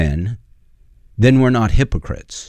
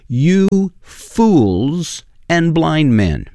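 stern rebuke; 5 semitones higher, much slower than usual. Acted. Jesus rebuking the Pharisees.

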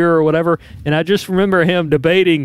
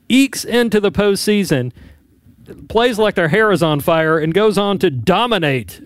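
emphatic sportscast recap; frustrated sports commentator. Real, not acted. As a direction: punch the key words like a sports anchor. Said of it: "You sound like a frustrated sports commentator".

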